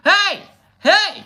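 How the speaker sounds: very high, loud squeaky protest; squeaky mouse. Retold or imitated. Squeezed mouse squeaking loud and high at the man.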